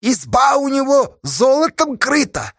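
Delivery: shrill up in the head, shouting at him; тонким голосом, громко; loud thin voice. A narrator's reading. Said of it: "Совсем тонким голосом громко спросил".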